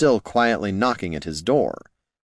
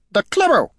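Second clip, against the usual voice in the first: very high, fierce goblin squeak; piercingly high goblin exclamation; 5 dB louder than usual. A narrator's reading. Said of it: "he said fiercely".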